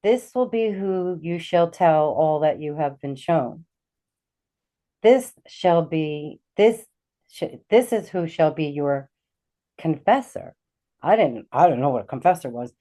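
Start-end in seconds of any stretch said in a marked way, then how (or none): 0.0-10.5 lightly voiced solemn pronouncement, slow and measured; heavenly voice. Unseen voice naming her confessor in a vision, lightly imitated solemnity. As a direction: slowly imitate a divine announcement, with weighty pauses. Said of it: "then I hear this voice".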